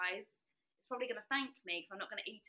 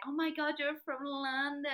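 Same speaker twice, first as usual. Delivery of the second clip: higher, slow delighted exclamation; thrilled to hear London; friendly stranger delighted by her accent; excited surprise; 6 semitones higher than usual. Retold or imitated. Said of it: "he was just like".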